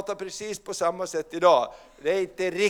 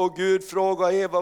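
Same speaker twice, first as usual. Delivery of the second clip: ordinary talk, nothing marked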